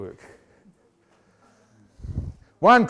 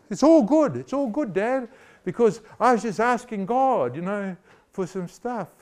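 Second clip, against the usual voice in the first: daughter's voice; 4 semitones higher than usual. Retold or imitated. Daughter voiced, higher and brighter.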